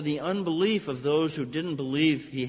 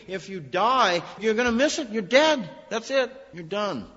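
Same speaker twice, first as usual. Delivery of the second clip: mock panic, much higher and louder; alarmed panic; 9 semitones higher, 5 dB louder than usual. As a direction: voice their alarm, pitched high and urgent. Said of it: "they're thinking".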